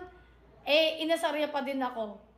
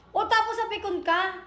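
raised voice; 4 semitones higher than usual. Retold or imitated. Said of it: "tumaas yung boses niya".

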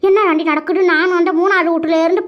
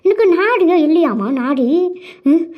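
theatrical tearful wail, endings stretched out; wailing lament. Acted. Mother-in-law complaining to the neighbour that she is homeless, wailing. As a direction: draw the grievance out into sobs. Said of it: "இவ என்னமோ ஒப்பாரி வைக்கிறா".

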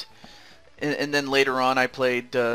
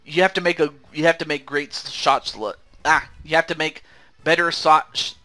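talking through a sticky mouthful; words mushed by peanut butter; mouth full of peanut butter. Real, not acted. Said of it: "I have peanut butter in my mouth".

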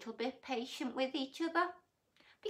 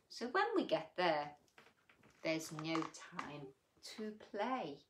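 put-on gentle read-aloud for children; sing-song storybook reading; story reading; 2 semitones lower than usual. A narrator's reading. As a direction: read it like a bedtime picture book. Reads rhyming picture book aloud.

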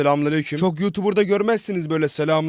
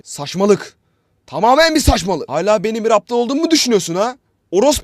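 high, loud angry dad; angry father; 7 semitones higher, 8 dB louder than usual. Acted. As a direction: rage at the wife coming home late. Dad angry at late mom. (eşine kızan baba, yüksek ve öfkeli)

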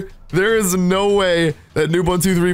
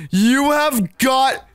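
disbelieving shout; 4 semitones higher, slower than usual. Real, not acted. To the chat as the friend finds the spot, disbelieving shout. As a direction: drag it out, can't believe it.

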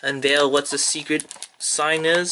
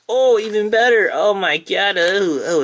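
higher and louder, delighted cry; delighted outburst; 6 semitones higher, 4 dB louder than usual. Real, not acted. Fan finds an even better card, delighted outburst. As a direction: burst out with real delight. Pulling favourite character cards.

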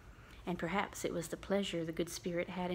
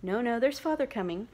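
put-on louder, eager kids' cry; a touch of excited little ones; excited children; 3 semitones higher, 5 dB louder than usual. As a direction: call out urgently like children. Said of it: "cried the two young Cratchits".

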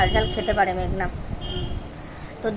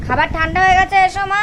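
higher and louder, pressing call; mother calling her daughter to eat, higher and louder; calling out again; 8 semitones higher, 4 dB louder than usual. Real, not acted.

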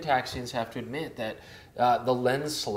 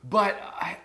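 whispering; 6 semitones higher than usual. Real, not acted. Hushed aside about Leica.

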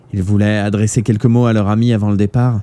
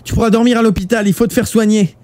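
high-pitched urgent pleading shout; desperate cry; 12 semitones higher, 3 dB louder than usual. A narrator's reading. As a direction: shout to keep a dying friend awake. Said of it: "cria Shuya".

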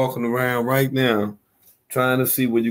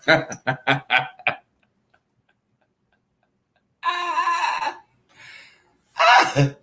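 cracking up; 7 semitones higher, 5 dB louder, slower than usual. Real, not acted. Roasting friend, cracking up.

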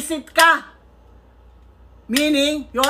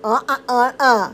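lips not touching; 3 semitones lower, faster than usual. Shown as a demonstration. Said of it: "Say it normally".

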